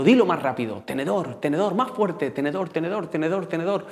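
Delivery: retold friend, keyed up and insistent; excited urging. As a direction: egg him on like a hyped-up schoolkid. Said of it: "Me sigue zarandeando".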